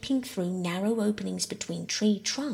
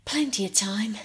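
panting; 2 semitones higher than usual. Acted. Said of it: "Peter panted".

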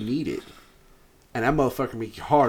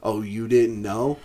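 wrestler catchphrase; 3 semitones lower, slower than usual. Retold or imitated. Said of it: "his theme song is fucking legendary".

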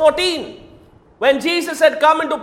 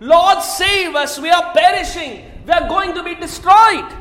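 mild mock plea; 2 semitones higher than usual. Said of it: "Listen to the words".

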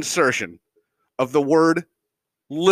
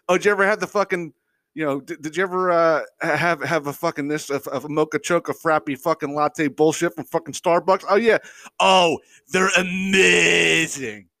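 mocking gushing fan. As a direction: mimic a fan raving over coffee. Mocking gushing Starbucks fans.

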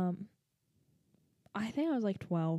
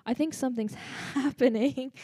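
laughing while retelling; 4 semitones higher than usual. Retold or imitated. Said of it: "my lisp came out".

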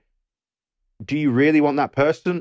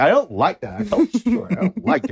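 higher-pitched retold whine of protest; mock panicky protest; 9 semitones higher than usual. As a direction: imitate a frightened diver objecting. Voicing the panicking diver's protest.

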